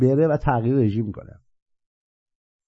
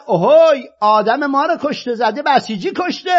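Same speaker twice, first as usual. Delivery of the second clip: mock shout; 10 semitones higher than usual. A man shouting after the fleeing killer, mock yell. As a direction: yell it out like a guard raising the alarm. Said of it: "بعد یکی داد زد".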